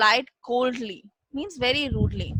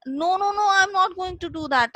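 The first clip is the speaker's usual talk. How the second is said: denying tiger; 7 semitones higher, faster than usual. Retold or imitated. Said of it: "So the tiger said".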